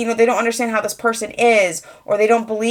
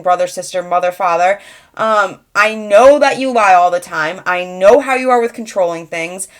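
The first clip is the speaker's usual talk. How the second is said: confrontational; 3 dB louder than usual. Pretend. Confronting a cheating relative.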